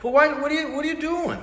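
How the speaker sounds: high-pitched ventriloquist dummy; high squeaky puppet voice. Acted. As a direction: squeak out an indignant question. Puppet voice quarrel with himself.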